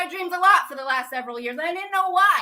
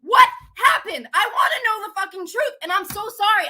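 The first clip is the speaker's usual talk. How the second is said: real agitated outburst, high-pitched; worked-up, frantic questioning; flipping out; 3 semitones higher than usual. Real, not acted. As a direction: demand answers at the top of your pitch, building to a shout. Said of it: "I'm flipping out right now".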